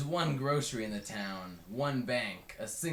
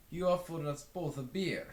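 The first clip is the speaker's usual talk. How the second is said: lightly voiced, higher storyteller man; casual retelling in a character voice; Westerberg's voice; 7 semitones higher, 3 dB louder than usual. A narrator's reading. Westerberg recounting the hitchhiker's first day, casual. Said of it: "says Westerberg".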